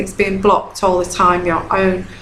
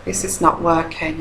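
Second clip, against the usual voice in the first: thought aloud; 2 semitones lower, 8 dB quieter than usual. Retold or imitated. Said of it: "that's what you're thinking".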